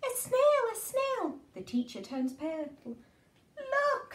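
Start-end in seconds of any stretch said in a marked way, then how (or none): 0.0-1.4 high, loud startled cry; shocked shriek. Acted. Teacher shrieking at the snail, high and startled. 3.6-4.1 high eager call; excited children. Acted. Children calling out to the teacher, high and eager. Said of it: "say the children".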